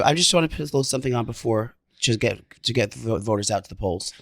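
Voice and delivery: sick, hoarse voice; croaky voice from a sore throat; hoarse from a cold. Real, not acted. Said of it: "What's wrong with your voice?".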